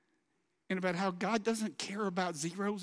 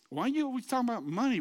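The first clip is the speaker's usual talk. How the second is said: mock complaint; 5 semitones higher, 5 dB louder, much faster than usual. Voices congregation's objection.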